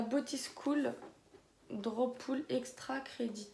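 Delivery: slow, careful English with a French accent. Real, not acted. Vlogger not strong in English reads palette name, French-accented English. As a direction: read English names slowly in a French accent. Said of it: "je suis pas forte en anglais".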